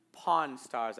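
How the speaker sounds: "Pawn Stars" said carefully, each word distinct; careful pronunciation. Real, not acted. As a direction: enunciate "Pawn Stars" with care. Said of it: "I need to say that carefully".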